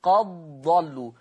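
قد ضلوا with the dal merged into the dad; merged reading. Shown as a demonstration. Teacher demonstrating idgham to students. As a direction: recite قد ضلوا with the dal swallowed. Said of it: "يقرأ بالإدغام".

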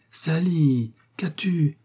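tender. Acted. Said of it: "demanda Millicent d'un air tendre".

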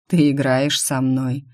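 slow, drawn-out name. Acted. Rion caught by her teasing, drawing out her name. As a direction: stretch the name lazily, like a predator. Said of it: "протянул Рион".

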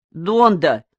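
loud, high call across the barracks; shouted cheer from a bunk; shouting. A narrator's reading. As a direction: yell the approval out. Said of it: "закричал Пузан".

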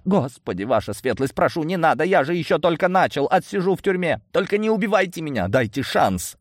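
high, frantic begging; wailing plea. A narrator's reading. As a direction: beg for mercy in a high whine. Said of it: "взвыл он". (жалобно воет, высоким голосом молит о пощаде)

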